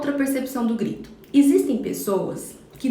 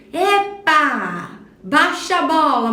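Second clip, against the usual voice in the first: loud, sharp higher rebuke; scolding parent; 4 semitones higher, 5 dB louder, much slower than usual. Retold or imitated. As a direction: bark it like an irritated mother. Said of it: "já começa a ficar nervoso".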